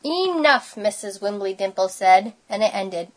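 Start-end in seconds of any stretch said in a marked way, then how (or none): 0.0-0.8 high, drawn-out call for order; firm command. A narrator's reading. Teacher ends the cat chase, firm call. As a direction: put an end to the commotion.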